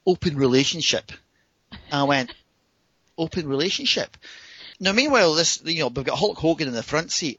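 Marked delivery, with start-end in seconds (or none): 0.1-1.1 imitated woman, stating it as settled fact; matter-of-fact announcement. Woman explaining her marriage to him, imitated matter-of-fact statement. 3.2-4.2 puzzled echo. Retold or imitated. Startled man querying her marriage arrangement, retold puzzled echo. He echoes it in disbelief.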